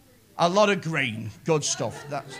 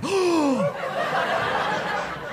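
mock crowd gasp; 6 semitones higher, 4 dB quieter than usual. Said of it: "a hundred and fifty people going".

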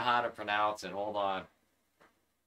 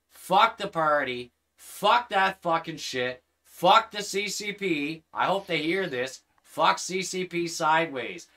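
angry rant; 3 semitones higher, 4 dB louder than usual. Real, not acted. Angry rant against the CCP.

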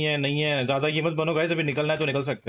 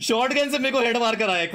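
high, indignant outburst; indignant complaint; 8 semitones higher than usual. Real, not acted. Telling friends he got headshot, indignant. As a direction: protest it, pitched well up.

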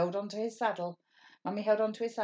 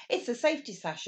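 exclaiming; 6 semitones higher, 3 dB louder than usual. Acted. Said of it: "exclaimed Carol".

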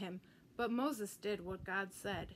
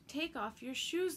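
thundering command; 5 semitones higher than usual. Acted. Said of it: "the voice thundered".

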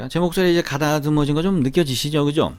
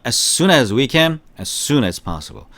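slow repeat-after-me; much slower than usual. Shown as a demonstration. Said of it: "시작".

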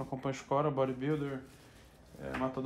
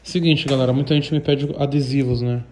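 loud announcement; 6 dB louder than usual. Real, not acted. Announcement to viewers.

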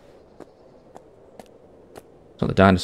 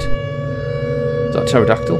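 much higher, slow, breathless whisper; hushed disbelief at what he sees; slow, high, whispered astonishment; awed whisper; slower than usual. Real, not acted. Sees flying creature, awed.

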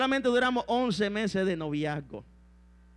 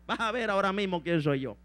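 Jezabel threatening. Acted. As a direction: drop the voice to warn. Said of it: "Y le dice a Jezabel".

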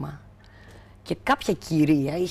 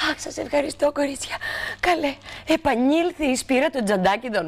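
a lightly voiced, higher fussy lady; grateful old lady; 8 semitones higher than usual. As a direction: thank the girls like a flustered old lady. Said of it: "έρχεται τρέχοντας και λέει".

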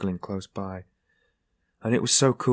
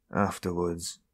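low, much softer, faint single word; weakly; 4 semitones lower, 8 dB quieter, slower than usual. A narrator's reading. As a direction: barely push the word out, drained. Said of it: "he said weakly".

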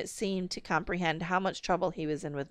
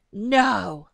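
a louder sudden "No"; blurted; 3 semitones higher, 7 dB louder than usual. A narrator's reading. Father at the cop's arrival, blurting in alarm. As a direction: burst out in alarm. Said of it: "my father blurted".

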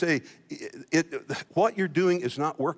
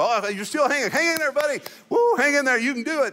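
cheering buddy; 9 semitones higher than usual. Retold or imitated. Friend cheering a struggling lifter.

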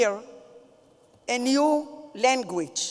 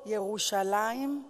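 loving; 4 semitones lower, 9 dB quieter than usual. Retold or imitated. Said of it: "he said it with great love".

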